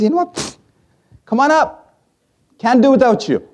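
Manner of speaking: high, excited voice of God; God welcoming you home. Retold or imitated. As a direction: call high and bright, come on up.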